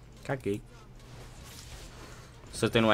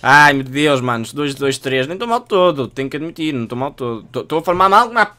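excited shouting; 4 semitones higher, 12 dB louder than usual. Real, not acted. Excited about the match score.

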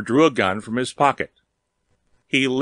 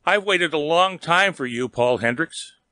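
lightly voiced temptress, pitched higher; throaty seductress; 5 semitones higher than usual. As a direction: lure him in with a hint of throatiness. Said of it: "Her voice was throbbingly throaty".

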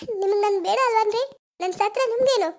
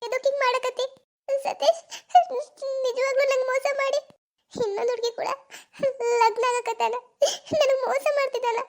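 tearful, breaking voice, half laughing in shock; distraught crying. Acted. Girl crying alone after the photo of her lover's engagement. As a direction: sob out the betrayal in disbelief.

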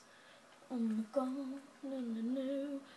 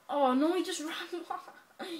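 scream into giggles; 5 semitones higher, 4 dB louder than usual. Real, not acted. Scared then laughs at enemy.

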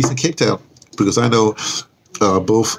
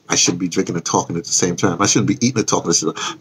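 talking through a sip of tea; mouth full; 3 semitones lower, faster than usual. Real, not acted. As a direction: speak round a mouthful. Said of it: "I'm drinking some tea".

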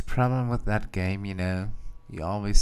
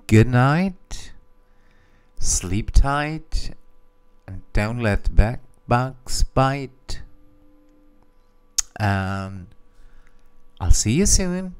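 right in your ear; 2 semitones higher, slower than usual. Acted. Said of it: "I'm going to whisper in my microphone".

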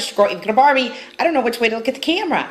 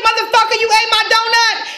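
retold accusation; 8 semitones higher than usual. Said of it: "I was like".

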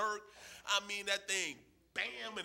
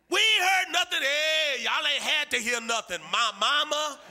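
high, loud playground argument; acted shouted insistence; 7 semitones higher, 8 dB louder, slower than usual. Boy insisting to friends his mother is calling, shouted. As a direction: shout it as a boy, building to a preacher's cry. Boys argue over mother's call.

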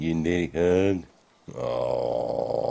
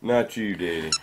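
put-on baby voice; 4 semitones higher than usual. Dad repeats baby's refusal.

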